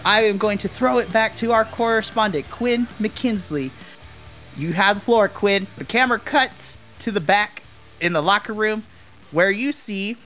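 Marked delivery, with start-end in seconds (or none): 0.1-5.7 hyped wrestling announcer read; ring announcer. Acted.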